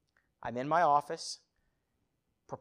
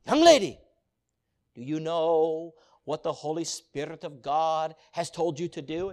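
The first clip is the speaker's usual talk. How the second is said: louder, calling out then slowing; confronting evangelist; 9 dB louder than usual. Retold or imitated. Evangelist singling out a teenage girl, loud confrontation. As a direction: call her out from the pulpit. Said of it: "he pointed at that young girl and he says".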